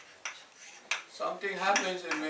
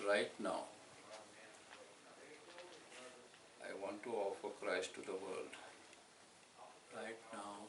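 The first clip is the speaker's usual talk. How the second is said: breath prayer; 6 semitones lower, 14 dB quieter than usual. Shown as a demonstration. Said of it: "when I breathe in".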